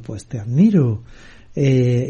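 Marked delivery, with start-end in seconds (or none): 0.2-1.0 answering echo. Retold or imitated. Mountain returns the father's call, understated echo. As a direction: give it back as a mild echo. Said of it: "Y se escuchó".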